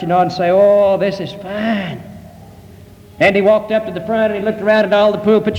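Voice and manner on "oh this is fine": slow, drawn-out admiring voice; mock admiration. Visitor walking on the new carpet, slowly admiring. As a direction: savour it, stretching the words out. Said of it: "He'd walk on the carpet".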